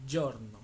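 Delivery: Giorno with the G said like a Y; Italian pronunciation. Shown as a demonstration. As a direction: say Giorno starting with a Y sound. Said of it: "se pronuncia como si fuera una Y O". (Giorno pronunciado con una y al inicio)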